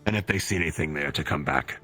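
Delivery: commanding officer giving orders; military officer. Acted. Colonel gives orders.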